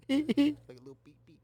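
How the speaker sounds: giggling through the repeat; laughing. Real, not acted. Cracking himself up over the burnt ash, laughing. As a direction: let the laugh take the line.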